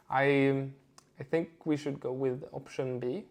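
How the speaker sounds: soft, halting, unsure of the choice; quiet and hesitant. Shown as a demonstration. Coach modelling self-doubt in an opinion, quiet hesitation. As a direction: falter after the first word, then say it softly. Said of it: "more quietly, with hesitation".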